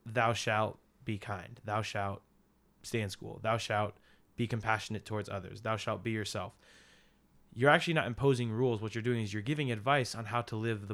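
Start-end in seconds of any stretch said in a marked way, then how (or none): 0.0-6.6 mock commandment. Shown as a demonstration. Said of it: "What if you were to word that".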